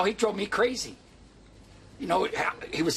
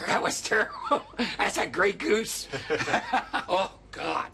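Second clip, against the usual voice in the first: laughing; 4 semitones higher, slower than usual. Real, not acted. Laughs about being drunk.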